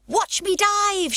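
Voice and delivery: slow, high, loud drawn-out shout; gleeful stretched-out shout from the rooftop. Acted. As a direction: show off before leaping. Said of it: "shouted Pippi".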